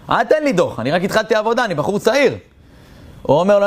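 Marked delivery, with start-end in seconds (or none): 0.1-2.3 higher, mock pleading voice. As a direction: beg him lightly not to write the ticket. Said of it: "מתחנן אליו". (תחינה קלה בקול גבוה)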